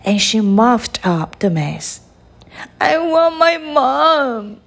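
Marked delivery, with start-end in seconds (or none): 2.8-4.6 put-on high, slow child's whine; storybook yell without much volume; mock yell. A narrator's reading. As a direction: call out high and drawn-out, like a little princess. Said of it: "yelled the little princess".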